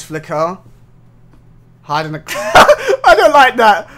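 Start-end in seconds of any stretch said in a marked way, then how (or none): 2.3-3.0 high, loud burst of startled laughter. Real, not acted. Player startled by the game's warning, startled laugh. 3.0-3.9 high, loud, rattled protest; startled unease. Real, not acted. Player reacting to a horror game scare, spooked.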